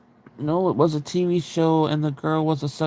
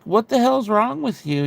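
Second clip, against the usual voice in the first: higher, mildly appalled question; retold alarmed disbelief; 6 semitones higher than usual. Sister confronting brother who seems possessed, alarmed disbelief. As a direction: replay an incredulous challenge.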